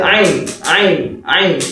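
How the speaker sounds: "Ain" from the throat as Arabs say it; "Ain" with the Arabic throat consonant, repeated singly; Arab pronunciation of Ain. Shown as a demonstration. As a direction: model the Arabic letter "Ain" for learners. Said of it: "they will only say what".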